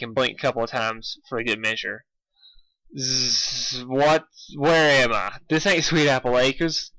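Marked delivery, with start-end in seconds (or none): 3.0-6.9 groggy Applejack. Acted. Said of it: "That sounded more like Babseed".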